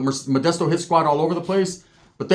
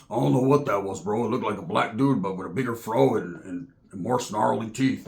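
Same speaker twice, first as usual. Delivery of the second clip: low and soft, slowing at the end; spooked whisper; 7 semitones lower, 5 dB quieter than usual. Retold or imitated. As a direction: nervously describe the creature. Roach scared retelling.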